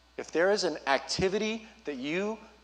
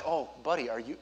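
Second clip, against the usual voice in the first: softer, tender dad voice; concerned dad; 4 dB quieter than usual. Retold or imitated. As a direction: gently check on a hurt child. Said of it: "as a dad, I'm just like".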